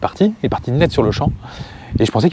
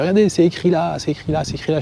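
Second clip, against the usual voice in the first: higher, insistent imitation of the camper; insistent rule-stickler; 6 semitones higher than usual. Imitating the camper showing the posted rules, higher and insistent. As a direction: point at the rules, repeating insistently. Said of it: "puis il fait".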